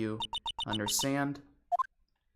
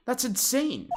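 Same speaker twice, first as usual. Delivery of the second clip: shocked; 10 semitones higher, slower than usual. Acted. Shocked at a huge repair bill.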